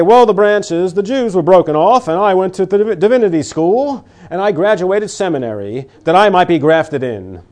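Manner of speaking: lightly voiced smug seminary graduate; half-mocking a proud believer; a hint of a proud Gentile. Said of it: "you might say".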